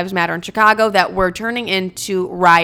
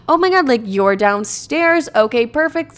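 mock phone chat, pitched up; fake phone call; 4 semitones higher than usual. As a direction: put on a higher voice as if chatting to mom. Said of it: "acting like I'm on the phone".

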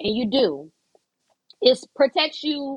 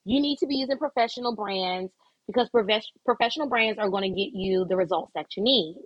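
professional voice. Shown as a demonstration. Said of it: "I say that in my professional voice".

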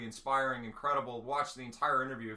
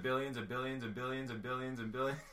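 lightly imitated politician's repeated catchword; Trump. Host spoofing the viral one-word videos, light impression. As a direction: loop it like a spliced video, breaking into a laugh. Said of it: "like those Trump videos they do".

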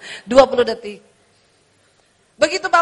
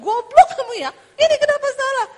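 louder, much higher furious scolding; angry yell; 10 semitones higher, 5 dB louder than usual. Retold or imitated. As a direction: blow up at the clerk. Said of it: "Kalau dulu kan dia ngomong".

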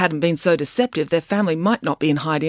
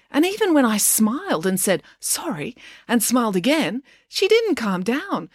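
Loretta; 8 semitones higher than usual. Acted. Loretta complains about April.

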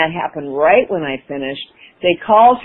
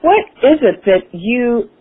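high drawn-out so; 6 semitones higher, slower than usual. Retold or imitated. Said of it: "she said".

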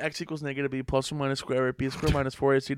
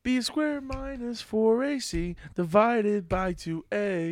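slow recitation; 8 semitones higher, slower than usual. Real, not acted. Reciting formula slowly.

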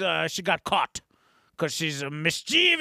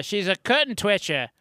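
mildly put-on English accent; lightly voiced British busybody; March Hare; 3 semitones higher than usual. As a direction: try a British "twitcher". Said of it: "So then the March Hare".

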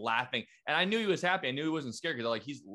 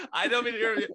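laughing while cutting in, high-pitched; real laughter; 9 semitones higher, 3 dB louder, much faster than usual. Real, not acted. Listener interrupts friend's trip story, laughing. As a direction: break in through a laugh.

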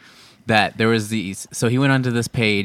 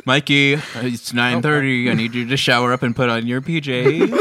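mock mom voice. Friend mocks Mikey as his bedtime mom. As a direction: nag him like his mom at bedtime, laughing.

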